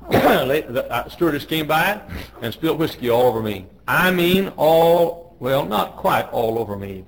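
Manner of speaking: normal talking voice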